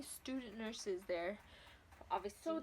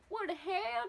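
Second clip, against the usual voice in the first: higher, louder startled outcry; shocked exclamation; 9 semitones higher, 8 dB louder than usual. Retold or imitated. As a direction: react in sudden disbelief. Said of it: "and I'm like".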